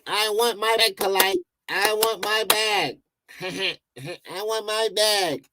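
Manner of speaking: lightly voiced, slowed mock-polite plea; mock polite request. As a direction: mimic a man asking nicely for his money. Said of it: "Remember, he was polite".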